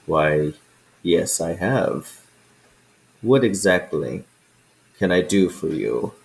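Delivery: a hint of a puzzled old dragon, rising questions; lightly voiced dragon. Old dragon puzzles at the adventurers asking counsel, lightly voiced. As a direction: play the ancient dragon, curious and amused.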